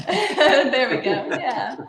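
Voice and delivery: laughing through tears; shaky laugh after crying; teary laugh. Real, not acted.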